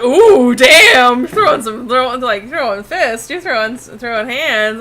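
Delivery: mock tough guy. Retelling a viewer's reaction, hammed-up mock fight hype. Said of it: "this other guy was like".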